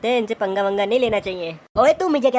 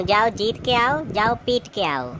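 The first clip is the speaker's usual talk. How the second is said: mock blessing; slower than usual. Wife blesses the two brothers.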